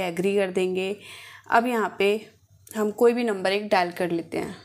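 ordinary talk, nothing marked

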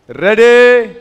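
shouted high, drawn out; booming host's cue; loud starting call. Real, not acted. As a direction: call the players to their marks. Host calls start to players.

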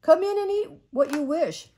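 mother lightly voicing the witch for her girls, coaxing; sweet-talking witch. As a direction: lure them in like a storybook witch. Witch voiced luring children.

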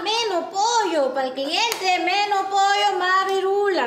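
slow, measured recitation of the slogan; drilled catchphrase. Shown as a demonstration. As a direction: spell the slogan out slowly for a trainee. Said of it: "tú que hablando chifa".

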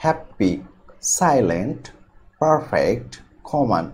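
হ্যাপি, সাইলেন্ট, পারফেক্ট, কমন, each front-stressed; first-syllable stress. Shown as a demonstration. Teacher listing adjectives for learners, first-syllable stress in হ্যাপি, সাইলেন্ট, পারফেক্ট, কমন. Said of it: "প্রথম সিলেবলের উপর".

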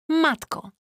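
znacznie wyżej, z przejęciem; zdumione westchnienie. A narrator's reading. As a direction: krzyknij Matko z wysokim zdumieniem. Tina wzdycha zdumiona. (Tina z wysokim zdumieniem reaguje na wieść)

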